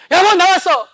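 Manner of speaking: loud call to his wife; loud lecture-hall shout greeting wife at home; shouting like on stage. Shown as a demonstration. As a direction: yell it the way he yells at the lecture. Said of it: "여기서 소리치듯이".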